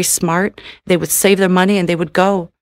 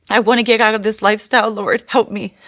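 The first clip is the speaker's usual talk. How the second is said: tearful plea; 3 semitones higher than usual. Real, not acted. Woman begging God to free her, tearful. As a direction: rush the plea through tears.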